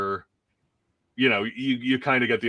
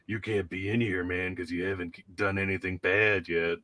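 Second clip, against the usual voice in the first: Palaquin; 3 semitones lower, 6 dB quieter than usual. Retold or imitated. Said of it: "Palaquin is kind of like".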